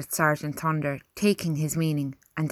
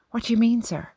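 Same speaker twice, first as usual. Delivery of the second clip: higher, anxious question with a slight tremor; 6 semitones higher, faster than usual. A narrator's reading. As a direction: ask it worriedly, a little tremulous. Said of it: "a tremor in his voice".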